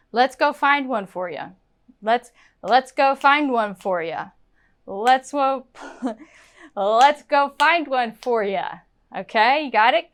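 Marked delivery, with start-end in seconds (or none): 0.1-4.3 "for ya" run together with a short "yuh"; "you" turned to "ya". Shown as a demonstration. Teacher models talking to the person, casual "ya". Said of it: "It might turn into a ya". 6.8-8.7 drawn start, then "for ya" linked; weak "yuh" ending on "for ya"; "you" as "ya". Shown as a demonstration. Teacher retries after a slip, reduced "ya". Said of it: "It might turn into a ya".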